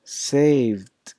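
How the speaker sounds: "saved" as one syllable ending in D. Shown as a demonstration. Teacher demonstrating the D sound, "saved" closing on D. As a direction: close "saved" on a voiced D. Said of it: "then the sounds that I pronounce sounds like".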